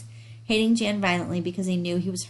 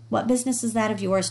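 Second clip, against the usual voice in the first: sharp retort; 3 semitones higher than usual. Acted. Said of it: "Jan shot at him".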